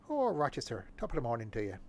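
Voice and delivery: a light stage Irish lilt, hammed up; mock Irish accent. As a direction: greet Rochester like a cartoon Irishman. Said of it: "in an Irish accent".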